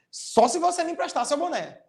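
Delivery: "Só se você me emprestar seu boné" lifted high; high exclamatory tune on "Só se você me emprestar seu boné"; exclamation. Shown as a demonstration. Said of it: "vai exclamar novamente".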